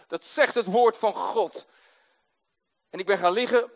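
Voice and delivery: normal talking voice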